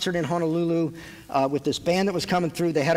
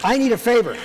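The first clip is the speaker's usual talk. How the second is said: mock demand; 4 semitones higher than usual. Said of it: "No, I'm just kidding".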